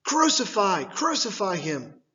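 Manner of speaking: crowd shouting. Acted. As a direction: hammer the word as the mob. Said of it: "they kept shouting".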